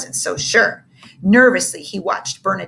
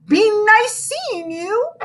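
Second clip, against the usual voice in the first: calling after; 12 semitones higher, slower than usual. Acted. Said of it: "Bernadette called after her".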